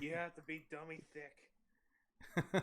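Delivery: loud, slow, stretched out; loud slow drawl. Acted. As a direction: drag out dummy thick loudly. Emphatic joke line.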